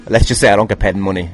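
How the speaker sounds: normal talking voice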